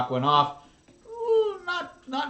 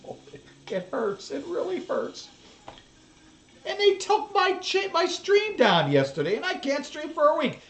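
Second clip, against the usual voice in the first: pained whine; 10 semitones higher than usual. Real, not acted.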